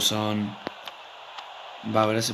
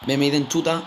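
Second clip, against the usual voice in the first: urgent shout to shoot; 5 semitones higher, 6 dB louder than usual. Real, not acted. Urging player to shoot.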